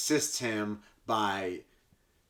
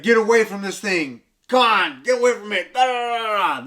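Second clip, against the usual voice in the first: higher, louder frantic shout; mock yell; 9 semitones higher, 7 dB louder than usual. Mom pulling the kids away from ET, higher louder yell.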